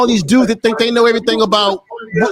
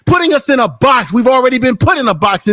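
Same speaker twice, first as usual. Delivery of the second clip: angry ranting. Real, not acted. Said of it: "bro, he was so mad".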